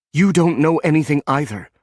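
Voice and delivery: mild protest to Tucker; arguing. A narrator's reading. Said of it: "Ronnie argued".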